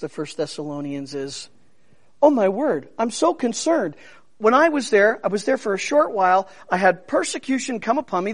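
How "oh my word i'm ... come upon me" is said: a hint of an anxious apostle, slightly quick; lightly voiced fretting Paul; worried Paul. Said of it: "This is Paul speaking".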